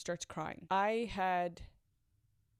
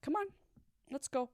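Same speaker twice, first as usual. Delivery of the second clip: soft coaxing; 6 semitones higher than usual. Retold or imitated. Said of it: "was soft".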